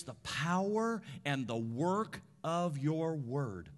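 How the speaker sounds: hushed, earnest prayer voice. Acted. Pastor praying over the congregation, earnest prayer.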